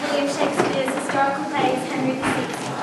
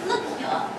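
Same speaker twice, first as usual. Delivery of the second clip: hushed taunt; 2 semitones higher, 6 dB quieter than usual. Acted. Queen shows bloody napkin.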